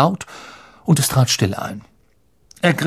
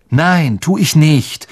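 angry; 3 semitones higher, 4 dB louder, slower than usual. Acted. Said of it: "sagte Harry wütend".

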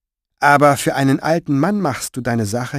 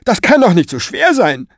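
high, louder mocking woman's voice; imitating her voice; 10 semitones higher, 6 dB louder than usual. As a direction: mimic her nagging, exaggerated. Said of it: "Fenoglio ahmte ihre Stimme nach". (spöttische Nachahmung ihrer Stimme)

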